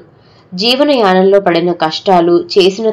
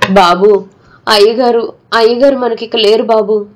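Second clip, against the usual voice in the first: tearful; 2 semitones higher than usual. Acted. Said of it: "ఏడుస్తున్నాడు నరసయ్య".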